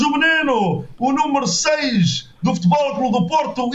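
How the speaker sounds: rising, frantic play-by-play; football commentary. Pretend. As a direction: call the goal like a TV commentator. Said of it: "faz o relato aqui à tua maneira".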